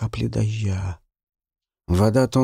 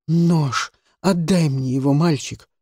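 demanding; 5 semitones higher, 3 dB louder than usual. Acted. She demands the knife.

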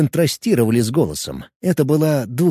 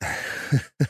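quiet scoff; 9 dB quieter than usual. Acted. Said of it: "хмыкнул Варп".

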